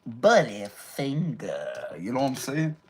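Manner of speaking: low, slow ventriloquist dummy voice. Pretend. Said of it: "That's my ventriloquist voice coming out".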